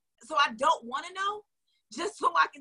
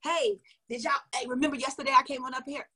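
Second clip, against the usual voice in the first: chatty live host. Shown as a demonstration. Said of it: "Act like you're talking to your girl".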